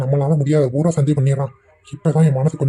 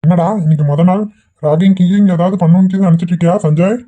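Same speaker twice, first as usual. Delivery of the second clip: louder, half-teasing question; raised voice; 3 semitones higher, 6 dB louder than usual. Acted. Father quizzing his son about ragging, loud and teasing. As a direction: call it across the table.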